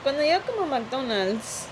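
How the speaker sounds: imitated Mexican Spanish accent, slightly playful; Eugenio accent. Showing friend how dad should sound, Eugenio-style Mexican accent. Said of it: "Eugenio accent for him".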